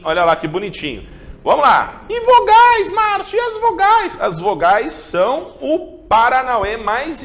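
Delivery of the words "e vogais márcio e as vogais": much higher, louder squeaky student asking. Acted. Teacher voicing a student asking about vowels, high squeaky voice. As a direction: play a curious kid asking Márcio.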